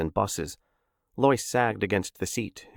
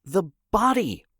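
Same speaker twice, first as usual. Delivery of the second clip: high, louder cry; shouted; 10 semitones higher, 3 dB louder than usual. A narrator's reading. Ed shouting to the crowd about the body, high and loud. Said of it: "Ed shouted".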